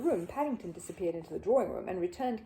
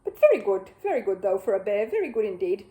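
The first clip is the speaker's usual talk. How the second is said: raised voice over clapping; loud over applause; 7 dB louder than usual. Acted. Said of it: "above the applause".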